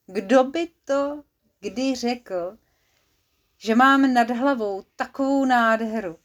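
contented sigh. Acted. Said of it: "Povzdechl si spokojeně".

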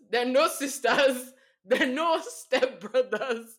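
laughing while punching the no; stress on no. Shown as a demonstration. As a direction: lean hard on each no, slowly. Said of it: "that was all a lie".

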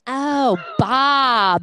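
high, lightly voiced realization; a touch of a bright movie line; imitating Meg Ryan. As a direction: play the woman catching on. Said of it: "And she goes".

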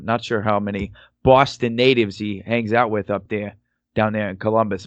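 weak attempt at a Boston accent; lightly put-on Boston accent. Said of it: "third worst Boston accent I've ever done".

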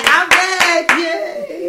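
cracking, strained excited voice. Real, not acted. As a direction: voice breaking on the high notes. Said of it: "Oh, my voice still cracking".

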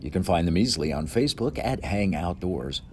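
upbeat sponsor read, announcer style. Pretend. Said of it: "That commercial was in my best announcer voice".

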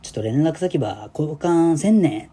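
a hint of a smooth Kyushu guy; Kyushu dialect. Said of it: "九州男児".

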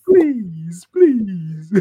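hammed-up high begging; soft-voiced begging. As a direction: draw out each mock please. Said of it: "you still put an old soft voice".

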